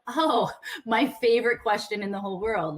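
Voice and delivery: mock delight with a laugh after "Oh"; sarcastic. Coach answering the dreaded networking question, sarcastic. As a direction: gush sarcastically, as if thrilled to be asked. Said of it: "Like, I'm being sarcastic".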